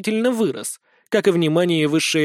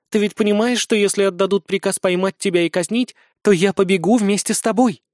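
lightly voiced anxious bride; young woman voice; 3 semitones higher than usual. Alina voiced by narrator.

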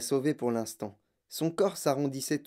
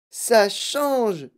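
high, raised cry of discovery; excited yell; 5 semitones higher, 4 dB louder than usual. A narrator's reading. Girl announcing the taste is changing, excited yell. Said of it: "hurla Violette".

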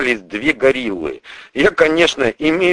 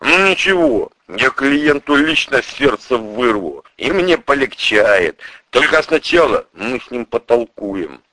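fierce hatred. Acted. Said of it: "сказано с такой лютой ненавистью".

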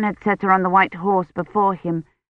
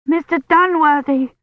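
higher, louder desperate scream of the name; 9 semitones higher, 3 dB louder than usual. A narrator's reading. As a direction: scream for him in feverish panic. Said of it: "she screamed".

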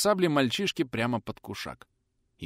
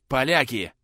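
hoarse, breathless; 3 semitones higher, 4 dB louder than usual. A narrator's reading. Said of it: "прохрипел, задыхаясь".

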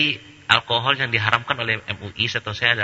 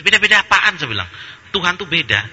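indignant retort; 6 semitones higher than usual. Retold or imitated. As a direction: throw back the phrase "Beda-beda apaan" in disbelief. Preacher's indignant retort, raised.

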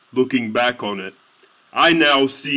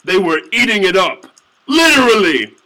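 incredulous; 7 semitones higher, 7 dB louder than usual. A narrator's reading. Incredulous outburst.

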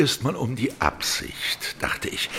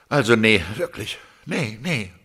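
frustrated. Acted. Artist despairs over his work.

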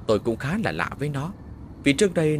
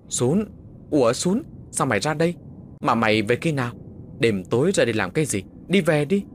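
startled; 3 semitones higher than usual. Acted. Patrol friend startled, urges home.

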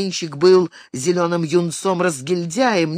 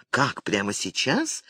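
low, soft, annoyed half-hiss; displeased hiss; 6 semitones lower, 6 dB quieter than usual. A narrator's reading. Mother hissing at her son, low and annoyed. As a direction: hiss it so nobody else hears. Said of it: "недовольно прошипела Донна".

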